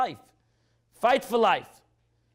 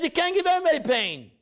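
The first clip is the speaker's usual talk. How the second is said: higher and pressing; fervent appeal, raised pitch; impassioned plea; 6 semitones higher than usual. Retold or imitated. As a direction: plead with God for his people. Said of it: "he said".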